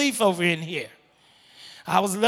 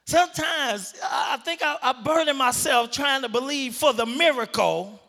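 raised, pressing preacher voice; full-force preaching; 3 semitones higher than usual. Acted. Pastor urging the church, preaching at full force. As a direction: preach it hard to the congregation.

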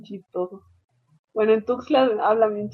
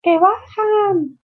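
high, slow drawn-out yell; mock passenger shouting the stop; 12 semitones higher, 4 dB louder, much slower than usual. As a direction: call it out long to the driver. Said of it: "y ya gritan".

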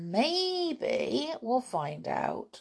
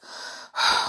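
weary sigh. Acted. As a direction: let out a tired sigh. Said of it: "said Aunt Fanny with a sigh".

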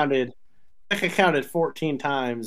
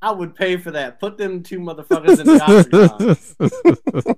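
higher and louder, laughing through it; excited retelling; 4 semitones higher, 7 dB louder than usual. Retold or imitated. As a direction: hype it up like a fight promoter. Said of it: "And I was like".

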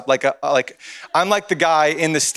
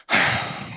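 sigh; 5 dB quieter than usual. Retold or imitated. Imitating niece shuffling over reluctantly.

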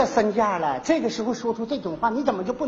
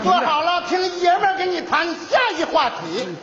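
commanding bark; 5 semitones higher than usual. Acted. Doctor commands patient to sit.

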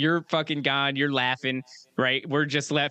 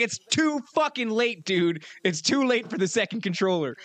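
higher-pitched mock protest; retold exasperation; 5 semitones higher than usual. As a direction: imitate an exasperated refusal to a friend. Acted refusal of late offer.

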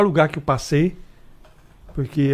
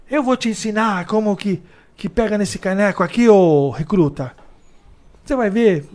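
a hint of the veteran teaching; slightly higher, patronizing; lightly voiced old cop; 5 semitones higher than usual. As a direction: veteran showing the rookie. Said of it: "E aí o".

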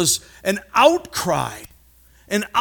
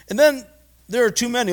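panicked spies; 8 semitones higher, 4 dB louder, faster than usual. Retold or imitated. Spies panic over the giants.

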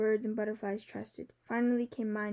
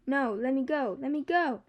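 frightened pleading; 3 semitones higher, 5 dB louder than usual. A narrator's reading. Girl struggles in grip.

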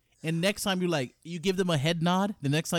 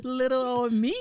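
laughing mock modesty; 13 semitones higher than usual.

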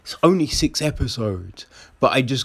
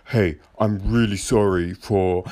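lower, meek sorry; mock meek apology; 6 semitones lower than usual. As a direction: apologize sheepishly.

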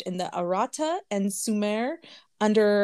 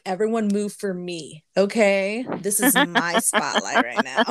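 diva voice; 5 dB louder than usual. Retold or imitated. Acting out diva strut at work.

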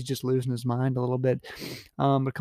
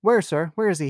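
mild shout; 3 semitones higher, 4 dB louder than usual. Acted. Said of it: "he shouted".

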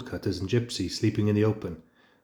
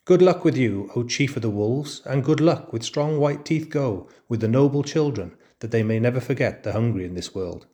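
whining jackal; 3 semitones higher, 3 dB louder than usual. Acted. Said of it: "crossed the threshold and whined".

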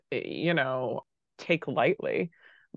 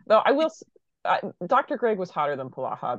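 bursting out with a guilty admission; blurted confession; 4 semitones higher, faster than usual. Real, not acted. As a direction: blurt it out, then own it. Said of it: "There, I said it".

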